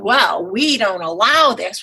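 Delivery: slow, lightly voiced dismissive doctor; mock blatant doctor. Imitating the first oncologist, slow and dismissive. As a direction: drag it out like a doctor who won't explain. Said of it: "blatantly saying".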